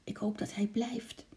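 soft, breath-only whisper. A narrator's reading. Lotje hoping the squirrel stays, whispering. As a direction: whisper it like a secret hope. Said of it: "fluisterde Lotje".

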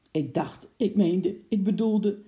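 halting, broken-off starts; stammering. Acted. Flustered man stammers to the policeman, halting starts. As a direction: fumble for the right words. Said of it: "stotterde de meneer".

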